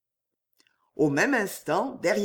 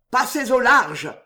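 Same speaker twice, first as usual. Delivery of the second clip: haughty tone; 5 semitones higher, 5 dB louder than usual. A narrator's reading. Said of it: "sur un ton de hauteur".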